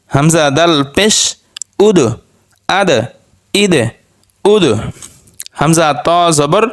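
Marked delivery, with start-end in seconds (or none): 1.9-4.6 উদ, আদ, ইদ each ending in a bounced দ; qalqalah bounce. Shown as a demonstration. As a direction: give every final দ a short echoing jolt. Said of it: "এগুলো একটু ধাক্কা দিয়ে পড়তে হবে".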